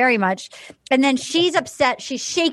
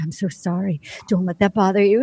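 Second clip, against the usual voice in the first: mock soothing Dale; 5 semitones lower than usual. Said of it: "He's like".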